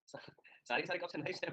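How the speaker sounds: breathy whisper of the absurd line; whispered repeat. Real, not acted. Teacher marvelling at cups being knives, whispered. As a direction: whisper it, half laughing at the idea.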